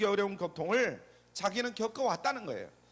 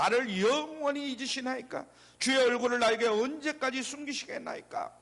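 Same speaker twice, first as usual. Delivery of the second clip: higher-pitched imitated reproach; resentful lament; 5 semitones higher than usual. Psalmist reproaching God for hiding, higher resentful lament. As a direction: plead upward in mild reproach. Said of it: "이렇게 원망하고 있어요".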